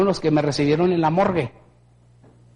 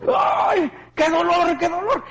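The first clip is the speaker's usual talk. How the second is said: crying in pain; 9 semitones higher, slower than usual. Retold or imitated. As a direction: wail from the pain. Pain in bare feet.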